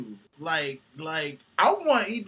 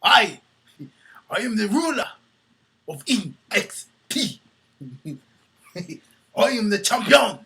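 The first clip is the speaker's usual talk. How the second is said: louder, slow mock champion boast; wrestler promo voice; 3 semitones higher, 5 dB louder than usual. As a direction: puff up like a champion cutting a promo.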